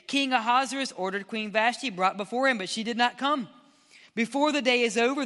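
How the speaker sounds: lightly heightened Bible reading; dramatic scripture reading. Acted. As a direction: read the official's warning with preacher's force. Reads the official's speech.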